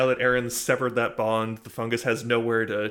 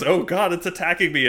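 higher and louder mock panic; a hammed-up cry of alarm; mock panicked Lincoln; 6 semitones higher, 6 dB louder than usual. Imitating Lincoln in a mock panic. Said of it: "Lincoln goes".

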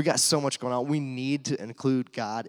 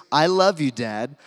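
sincere love; 3 semitones higher, 10 dB louder, slower than usual. Retold or imitated. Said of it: "the most sincere".

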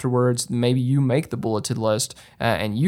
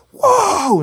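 high, loud retold whoop; mimicked burst of excitement; excited whoop; 6 dB louder than usual. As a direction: imitate the guy finally letting loose. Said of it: "and he got all excited".

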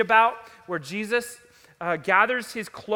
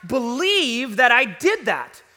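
loud, high, impassioned regret; agonized self-reproach; 7 semitones higher, 6 dB louder than usual. Acted. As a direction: preach it as someone appalled at their own words. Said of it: "you're left with".

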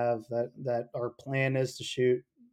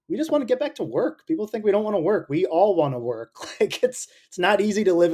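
passionate outburst; 8 semitones higher, 4 dB louder than usual. Real, not acted. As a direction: voice jumps high with feeling. Insisting writers want to work.

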